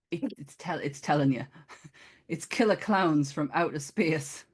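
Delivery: thick put-on Geordie accent; fake Geordie accent. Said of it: "fake Geordie accent".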